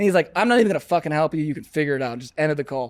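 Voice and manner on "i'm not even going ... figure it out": mock-angry cursing, acted swearing. Retelling how a man on a call cursed the speaker out, mock-angry cursing. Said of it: "him cursing me out".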